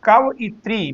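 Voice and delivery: कवइत्री broken into separate parts, कव-इत्री; split pronunciation. Shown as a demonstration. Teacher showing how the word comes apart, कवइत्री said split. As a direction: sound out कवइत्री as two separate pieces. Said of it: "कवइत्री तो अलग अलग माना जाएगा".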